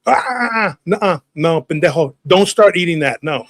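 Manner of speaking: scolding mother. Retold or imitated. Imitates mother stopping him.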